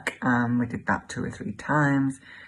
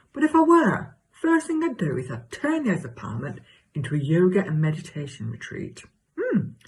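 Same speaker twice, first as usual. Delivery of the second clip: hammed-up chatty gossip with leaping pitch; exaggerated comic self. Telling Cheryl about her new neighbour, exaggerated comic gossip. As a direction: play a larger-than-life neighbourly chatterbox. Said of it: "do an exaggerated version of myself".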